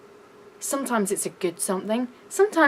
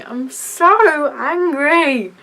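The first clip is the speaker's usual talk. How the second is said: slow, louder and higher, seething; angry; 5 semitones higher, 6 dB louder, much slower than usual. Real, not acted. Admitting her anger, slow voiced fury. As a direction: let the anger out in slow words.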